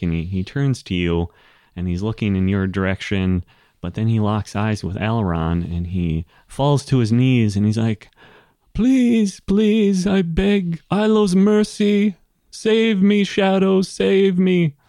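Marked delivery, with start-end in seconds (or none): 8.7-14.7 very high, very slow, drawn-out pleading tone. Voicing a kneeling enemy begging the players for mercy: pleading for mercy.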